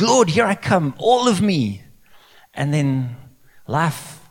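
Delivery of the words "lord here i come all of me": high, loud, all-in declaration; eager devotion. Acted. Believer calling to the Lord, eager and loud. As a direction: call out with wholehearted eagerness. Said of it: "We're like".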